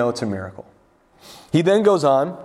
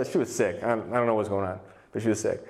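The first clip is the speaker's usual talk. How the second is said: low, quieter offhand shrug; mock cluelessness; 6 semitones lower, 4 dB quieter than usual. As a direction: play clueless writers, dropping pitch and volume. Imitated gospel writers, vague about illness.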